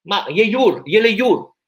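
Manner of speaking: hammed-up fake Spanish accent; faux accent espagnol. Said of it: "je suis un peu bloqué sur l'accent espagnol". (faux accent espagnol, voix haut perchée)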